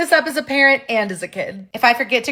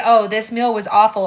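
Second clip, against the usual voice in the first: plain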